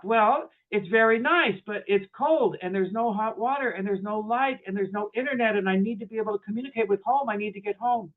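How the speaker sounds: mildly acted griping, piling up grievances; ugly American complaining. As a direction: list each complaint with mounting insistence. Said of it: "My inner ugly American is starting to wake up".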